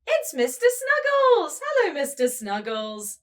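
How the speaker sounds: pretend-surprised reveal for kids; teacher gasps at finding Mister Snuggles.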